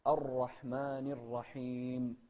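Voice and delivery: drawn-out, measured tajweed reading; slow Quran recitation. Shown as a demonstration. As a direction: recite slowly with long vowels. (ترتيل بطيء متأنٍ)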